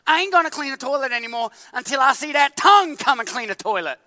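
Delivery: loud indignant protest, shouting. Acted. The fed-up hand shouts its refusal at the tongue. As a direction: yell out a flat refusal. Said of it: "the hand is like".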